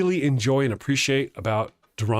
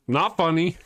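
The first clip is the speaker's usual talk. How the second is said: higher repeat; 5 semitones higher than usual. Retold or imitated. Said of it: "My face goes".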